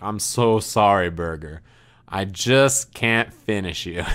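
slow, low, mock-heartfelt regret; profuse mock apology. Friend apologizing into the beef, slow and mock-sorrowful. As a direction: imitate a solemn apology, sinking at the ends. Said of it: "apologizing profusely".

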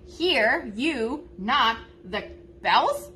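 slow word-for-word phrasing, amused; silly literal version. Shown as a demonstration. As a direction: read it like an awkward translation. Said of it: "so silly".

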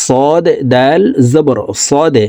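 slow spelling, bouncing the দ in "সদে"; qalqala demonstration. Shown as a demonstration. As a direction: push out the final দ of "সদে" with a little echo. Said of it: "ধাক্কা দিয়ে উচ্চারণ করতে হবে". ("সদে"-র দ ধাক্কা দিয়ে কলকলা উচ্চারণ)

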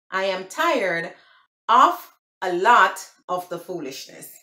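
"I am tired of a lot of the foolishness" in separated chunks; deliberate English "I am tired of a lot of the foolishness"; proper English. Shown as a demonstration. Vlogger repeating the translation, proper English "I am tired of a lot of the foolishness". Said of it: "proper English".

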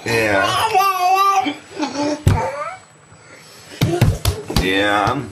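hoarse from a cold; raspy sick voice. Real, not acted. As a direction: rasp it out with a sore throat. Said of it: "you sound so pitiful the way you're rasping".

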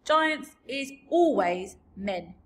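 big friendly giant, slow and booming; rumbling kindly giant; BFG voice. A narrator's reading. BFG character voice.

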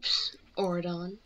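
quick conspiratorial whisper; whispered psst. Acted. Girl whispering a tip to her friend, conspiratorial whisper. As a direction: lean in and hiss it secretly.

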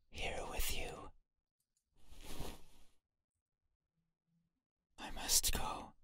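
eerie unvoiced whisper; whispering entity. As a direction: breathe it like a ghost.

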